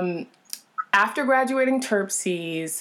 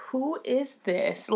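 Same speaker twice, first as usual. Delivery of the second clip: amused disbelief; 6 semitones higher, slower than usual. Retold or imitated. Retelling reaction to glamorous mom.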